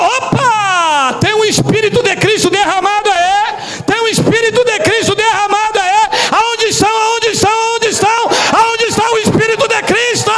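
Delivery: high, urgent preacher's cry; fervent high-pitched proclaiming; excited exclamation. Acted. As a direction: call out excitedly across the congregation. Acting out his excited reaction.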